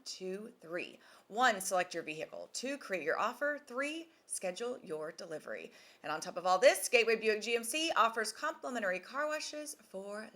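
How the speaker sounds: polished podcast sponsor read; punchy announcer-style ad copy. Acted. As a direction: sell the dealership with a scripted pitch. Reads a sponsor advertisement.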